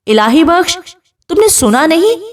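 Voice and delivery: husband roars his order at the servant; angry roar. Acted. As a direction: push the threat out with mild fury. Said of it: "غصے سے دھاڑ کر کہتا ہے".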